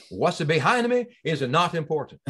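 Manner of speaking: put-on Raul Julia's Italian accent, quoted with a laugh; laughing Italian accent movie quote. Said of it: "That was pretty good accent".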